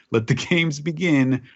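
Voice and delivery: slow, gloating villain line; mad scientist. Acted. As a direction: relish it like a schemer. Reading listener's gloating letter.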